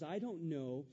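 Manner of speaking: a touch of dry sarcasm, slowed; lightly mocking Cain, slow; sarcastic Cain. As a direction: drawl the question back at God mockingly. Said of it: "look at how sarcastic he is".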